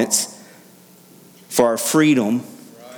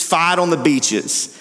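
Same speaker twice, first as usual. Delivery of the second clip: Churchill speech; 5 semitones higher, slower than usual. Retold or imitated. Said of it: "he delivers the speech".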